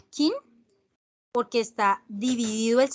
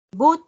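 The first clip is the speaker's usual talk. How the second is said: but alone, higher and louder; isolated first syllable; 5 semitones higher, 5 dB louder than usual. Shown as a demonstration. Teacher giving the first sound of butter, isolated and punched but. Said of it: "el primer sonido".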